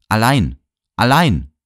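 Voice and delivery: loud raving cry; delirious yelling. A narrator's reading. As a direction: shout it out in delirium. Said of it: "brüllte immer wieder los".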